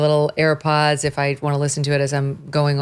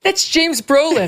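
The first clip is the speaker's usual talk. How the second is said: mock deadpan reveal; 11 semitones higher, 3 dB louder, slower than usual. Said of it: "And you're like".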